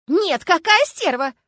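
slow, high, loud furious yell. A narrator's reading. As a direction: bellow the insult, stretching it. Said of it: "заорала апельсинчик".

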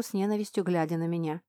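ordinary delivery, nothing marked

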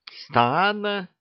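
high astonished question; cat yelping in surprise; startled. Acted. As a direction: jump at the word in shock. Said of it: "подпрыгнул Васька".

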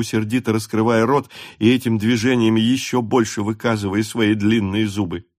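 plain reading voice

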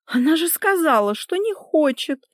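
high-pitched, protesting self-justification; defensive excuse. A narrator's reading. Wife tries to excuse herself, high defensive protest. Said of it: "попыталась оправдаться Лика".

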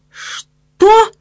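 outraged thug roaring a question. Acted. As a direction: bellow in disbelief. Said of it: "гаркнул он".

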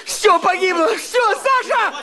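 despairing wail. Acted. Husband breaks down before wife.

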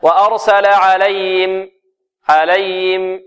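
slow "وأرسل عليهم" with the ه faded away; students' swallowed ha. Shown as a demonstration. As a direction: imitate the mistake, "عليهم" as "alayim". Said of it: "البعض هكذا". (تقليد خطأ الطلاب بضياع هاء «عليهم»)

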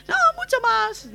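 put-on very high, slow wailing boy; crying child.

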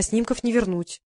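медленно и тише, растягивая; протяни слова, тянуще; протяжно. Acted. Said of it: "протянула я". (протяжно, с сожалением)

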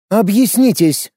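slow, high, icy demand. A narrator's reading. Lorana demanding an explanation in an icy voice. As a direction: freeze them with a cold demand. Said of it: "ледяным голосом потребовала Лорана".

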